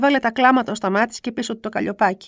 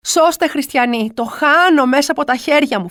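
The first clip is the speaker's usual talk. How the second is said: slow, louder call from the window; shouting for help; 4 semitones higher, 4 dB louder than usual. Retold or imitated. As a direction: beg the neighbours out the window. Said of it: "φωνάζω".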